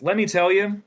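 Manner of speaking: high, theatrical character voice; Daleth character voice. Acted. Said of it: "ask for Daleth to take us out".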